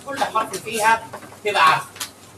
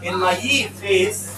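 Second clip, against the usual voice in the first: mock evil face. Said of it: "هيقلب لوش شرير".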